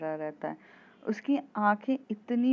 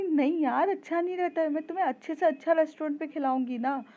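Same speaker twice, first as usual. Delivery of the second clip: higher, pleading and quick; coaxing plea; 8 semitones higher than usual. Retold or imitated. Mohini coaxing her friend away from street food, pleading quickly. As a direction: coax her out of it, fast.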